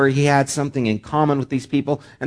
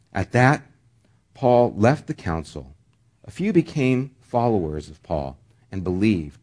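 measured public Bible reading; scripture reading; 3 semitones lower than usual. Acted. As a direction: read the passage aloud to a congregation. Reads scripture aloud.

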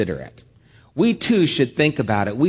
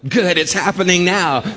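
higher, mildly hammed-up cheer; mock delight; 4 semitones higher, 4 dB louder than usual. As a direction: pretend to welcome the aches. Mock cheer at growing pains.

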